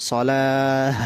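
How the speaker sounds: long সলাহ trailing into full h; big ha ending. Shown as a demonstration. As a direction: end সলাহ with an open breath of h. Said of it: "শেষে বড় হা উচ্চারণ হয়".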